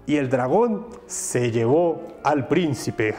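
slow, looming dragon voice. Acted. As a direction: draw it out like a gloating dragon.

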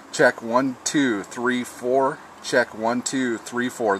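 open, natural radio check count; counting with no compression on the mic; uncompressed ham radio signal. Shown as a demonstration. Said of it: "This is no compression".

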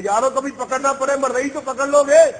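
high, loud call to the crowd. Real, not acted. Preacher to his friends in the crowd, calling out high and loud.

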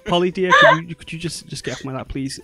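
a lightly voiced elderly-seeming mother, politely uncomfortable; polite frail mother. Mother greeting her daughter's friends, then asking her off her lap.

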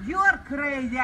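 angry shout; raging gamer. Real, not acted. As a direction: shout it back furiously. Angry parking dispute, shouting back.

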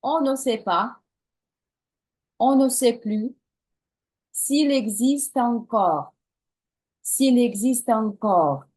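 slow, repeated French line; slow model phrase. Shown as a demonstration. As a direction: say it slowly twice for the class. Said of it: "повторюємо слова за мною".

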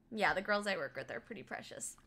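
usual speaking voice

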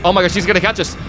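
frantic high yelling while fleeing; being chased. Real, not acted. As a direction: scream as it chases you. Chased again, running away.

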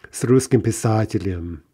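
писателем stressed on са, not the ending; unstressed ending. Shown as a demonstration. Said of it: "the ending is not stressed".

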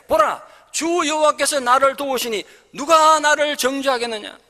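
triumphant reading of the verse; bold proclamation. Acted. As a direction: cry it out with confidence. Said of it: "그렇게 외치고 있습니다".

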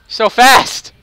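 high, loud startled yelp; surprised shout. Real, not acted. Caught off guard by a fast enemy in the game, surprised shout. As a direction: blurt it out as you get caught off guard.

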